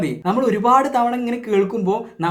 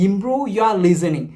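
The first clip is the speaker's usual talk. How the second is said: slow emphasis; much slower than usual. Shown as a demonstration. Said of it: "so അത് ചെയ്യുക നിങ്ങൾ".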